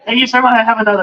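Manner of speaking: high, hammed-up eager underling; mock submissive plea. Repeats submissive plea, heightened.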